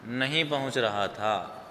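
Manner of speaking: slow, drawn-out words for note-taking; slow dictation. Real, not acted. Teacher giving students the next phrase to write, slow dictation. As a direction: dictate it slowly.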